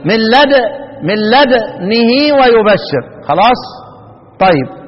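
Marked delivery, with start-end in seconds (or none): 1.1-3.0 "من لدنه ويبشر" with the damma of the ha cut short; slow chant, the vowel on the ha only snatched; recitation with ikhtilas. Shown as a demonstration. Teacher shows students the snatched vowel, slow chant. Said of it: "منتبهين معي؟".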